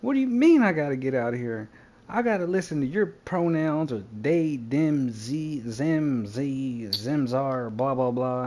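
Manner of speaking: loud, high, outraged comeback; mock-outraged retort, voice jumping up; indignant protest. Retelling his argument at the bar, indignant. Retells arguing back when thrown out.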